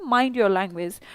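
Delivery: "mind your language" said slowly and carefully, word by word; slow demo phrase. Shown as a demonstration. Teacher showing the class how to say "mind your language", slow and deliberate. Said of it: "आप ऐसे बोलते हैं".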